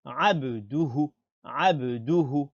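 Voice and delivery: abduhu with short, undragged du and hu; short syllables. Shown as a demonstration. Teacher modelling it right, short-voweled abduhu. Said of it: "On dit abduhu".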